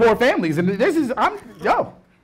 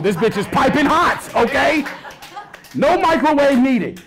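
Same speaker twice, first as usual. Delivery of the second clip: slow, proud boast; 7 semitones higher, 3 dB louder, slower than usual. Acted. Bragging about the hot honey bun.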